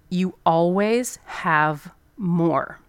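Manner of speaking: very slow, measured master's words; calm master. Retold or imitated. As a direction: deliver it slowly like a wise sensei. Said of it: "he said it in that, like, master way".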